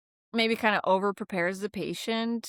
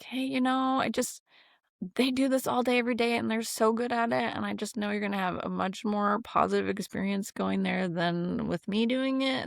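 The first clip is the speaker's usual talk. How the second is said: confident reassurance; 2 semitones higher than usual. Retold or imitated. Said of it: "we could be a little more confident".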